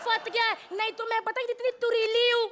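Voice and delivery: "तुरीली" with t in place of s; childlike lisp. Acted. Lisping daughter boasting of her voice, "तुरीली" for सुरीली. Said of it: "एक तोतली है".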